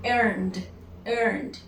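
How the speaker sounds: "earned" as one syllable ending in D; "earned" with voiced "nd" at the end. Shown as a demonstration. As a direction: model "earned" twice, no vowel in the -ed. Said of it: "I need to produce a D".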